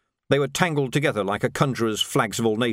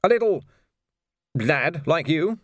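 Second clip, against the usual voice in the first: shocked; 5 semitones higher, slower than usual. A narrator's reading. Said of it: "completely shocked".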